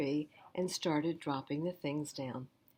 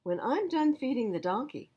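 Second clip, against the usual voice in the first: higher, louder busy sister; sister's voice; 4 semitones higher, 3 dB louder than usual. Acted. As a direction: call it out mid-chore. Sister gives advice.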